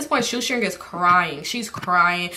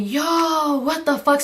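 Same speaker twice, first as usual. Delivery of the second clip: alarmed reaction; 7 semitones higher, much slower than usual. Retold or imitated. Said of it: "So I'm so fucking scared".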